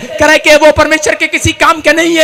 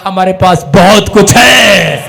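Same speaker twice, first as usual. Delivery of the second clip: calm assurance; 5 semitones lower, 6 dB louder, much slower than usual. Retold or imitated. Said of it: "मैंने कहा".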